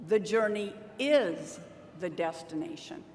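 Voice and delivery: emphasis on "is"; stress on is. Shown as a demonstration. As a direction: land on "is" and pause. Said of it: "listen to these four different ways".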